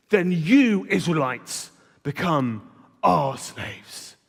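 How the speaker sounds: slow, lightly menacing giant laying down terms; hammed-up mock giant threat; Goliath voice. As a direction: talk down to them like a giant bully, slowly. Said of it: "I'll do my Goliath voice".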